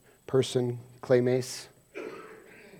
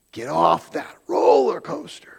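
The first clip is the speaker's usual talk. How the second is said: slow forceful command; 2 semitones higher, 3 dB louder than usual. Real, not acted. Preacher commanding congregation.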